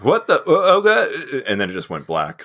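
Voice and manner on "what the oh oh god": panicked yelp. Retold or imitated. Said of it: "there was some audio like".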